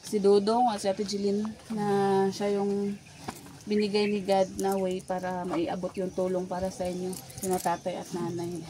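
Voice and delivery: panting between phrases; breathless after a climb; out of breath. Real, not acted. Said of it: "sobrang hinihingal talaga ako".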